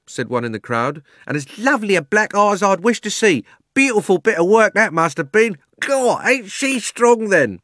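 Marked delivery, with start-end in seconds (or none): 1.3-7.6 high, loud, gleeful heckler; jeering onlooker. Acted. Onlooker admiring the black eye, high, loud jeering. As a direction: relish it loudly, drawing out the last words.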